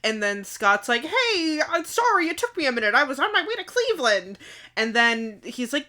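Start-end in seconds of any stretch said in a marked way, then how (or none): 1.0-4.4 higher-pitched, casual mock apology; lightly acted apology. Dad turns up late to his son, lightly acted apology. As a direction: imitate a late dad excusing himself. Voicing Scott's apologetic return.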